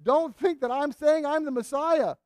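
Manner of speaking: John the Baptist firmly denying he is the Messiah; vigorous denial. Acted. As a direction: push the claim away hard. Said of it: "He vigorously repudiated any suggestion".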